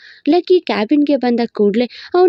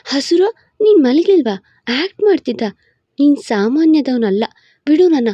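sweet mock anger; 3 semitones higher than usual. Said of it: "ಕೊಂಚ ಸಿಹಿಯಾದ ಸಿಟ್ಟು ತೋರಿದ್ಲು".

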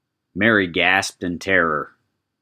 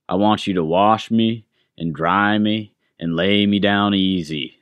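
skull voice. Acted. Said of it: "said the skull".

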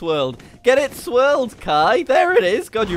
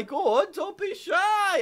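coaxing; 11 semitones higher, 4 dB quieter, slower than usual. Real, not acted. Coaxing Kai into frame.

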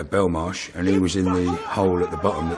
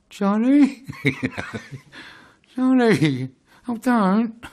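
grovelling plea; 14 semitones higher, much slower than usual. Retold or imitated. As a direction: beg him like a scared man, much higher. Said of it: "grovelled like".

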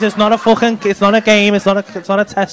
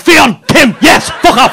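mock grumpy answer; 7 semitones higher, 6 dB louder, slower than usual. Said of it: "and you's like".

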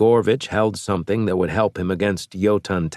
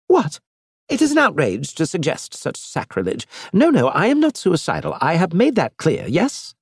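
indignant alien envoy, raised pitch; outraged alien; 9 semitones higher than usual. Acted. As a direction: protest in horror at the sacrilege. Elge outraged.

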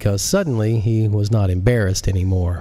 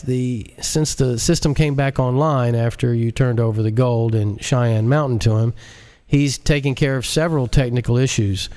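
higher, hesitant; higher, timid underling; timid director; 4 semitones higher than usual. Acted. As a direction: answer the boss nervously. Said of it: "the director timidly answered".

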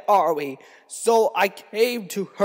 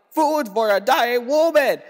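raised, higher cry for help; desperate cry; 6 semitones higher than usual. Retold or imitated. Husband at the workhouse gate begging food, desperate cry. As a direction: call out for food, half-shouted.

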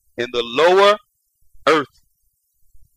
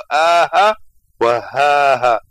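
groan of pain; 4 dB louder than usual. Shown as a demonstration. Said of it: "مبدلة من الهمزة الآه".

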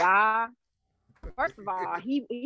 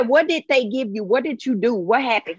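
louder, urgent questioning; mother demanding answers from her son, loud and urgent; frantic questions; 6 dB louder than usual. Retold or imitated. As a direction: grill the son fast and hard. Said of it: "I said".

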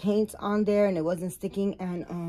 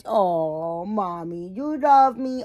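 playful doll voice; 4 dB louder, slower than usual. Pretend. Voicing the doll to herself.

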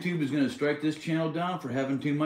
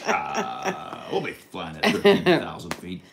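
pilot voice; slower than usual. Acted. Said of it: "we got a pilot voice".

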